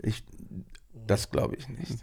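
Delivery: breathy whisper of modesty. Real, not acted. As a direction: drop to a whisper. Modest denial, voice drops away.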